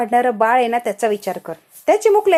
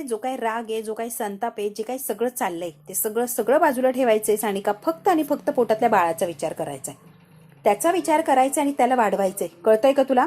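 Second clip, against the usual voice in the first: loving coaxing. Retold or imitated. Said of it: "प्रेमाने सानिकाला श्रावणीने समजावलेलं".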